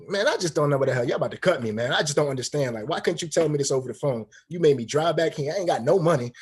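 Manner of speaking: frustrated, building complaint; retold frustration. Player venting to head coach about being cut, frustrated. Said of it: "like, frustrated?".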